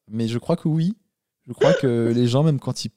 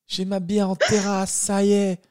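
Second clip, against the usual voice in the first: mocking beer drinker; 8 semitones higher, slower than usual. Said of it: "Oh, la tristesse".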